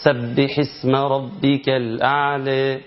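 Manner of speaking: slow Quranic recitation, vowels drawn out; slow tajweed recitation; recited with long vowels. Shown as a demonstration. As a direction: chant it slowly, holding each long vowel. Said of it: "اسمع كده".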